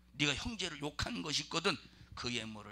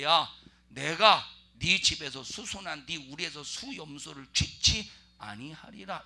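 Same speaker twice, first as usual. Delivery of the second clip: God's rebuke; 7 dB louder than usual. Acted.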